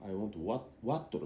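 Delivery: imitated Nepali-English "water"; hesitant English with a Nepali accent. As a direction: say it as ワットル, with a voiced final r. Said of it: "ネパールなまりの".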